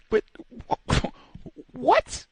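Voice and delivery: high, laughing Mister Martin squeak of disbelief; a startled what, done as Mister Martin. Retold or imitated. Store security guard bans him, he answers like Mister Martin. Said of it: "I sound like, uh, Mister Martin".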